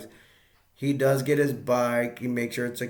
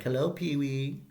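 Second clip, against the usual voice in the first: higher, sing-song hello rising at the end; lightly acted chummy greeting; imitated eager greeting; 3 semitones higher than usual. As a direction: call hello with a playful lilt. Francis greets Pee-wee, who is unkeen.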